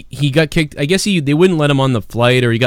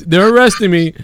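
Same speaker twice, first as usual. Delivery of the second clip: high, louder whiny mock of They're arresting me; imitating the guy; 9 semitones higher, 4 dB louder than usual. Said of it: "He goes".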